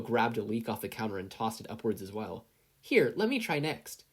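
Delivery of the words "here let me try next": slow, raised and eager; lightly voiced mother, slow; Inko's voice. A narrator's reading. Narrator voicing Inko asking for a turn, slow and raised.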